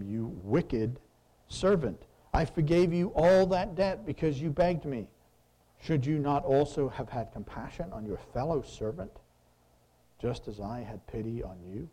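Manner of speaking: a hint of an angry king; angry master. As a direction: scold the servant for his cruelty. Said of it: "And his master was angry".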